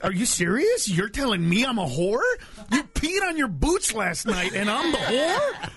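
mock outrage at a hypocrite; indignant disbelief. Comic playing someone stung by a slutty friend, incredulous. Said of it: "it's that moment where, like".

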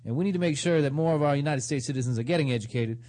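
politician impression. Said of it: "that was my impression of a politician".

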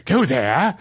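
brief mock-vampire accent; hammed-up vampire impression; Dracula. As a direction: toss it out as a bad vampire. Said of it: "just sound like a Dracula".

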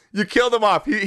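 ordinary talk, nothing marked

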